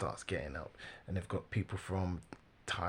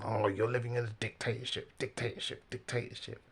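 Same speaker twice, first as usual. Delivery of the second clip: slightly raised, repetitive mimicry of accusers; mocking parroting; 3 semitones higher than usual. Commentator imitates an audience focused only on dictatorship, mocking refrain. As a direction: chant the accusation as a tiresome refrain. Mimicking critics fixated on one word.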